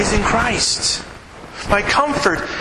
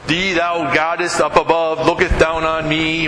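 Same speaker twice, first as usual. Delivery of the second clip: mock pious prayer; 2 semitones lower than usual. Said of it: "okay, I'm stern".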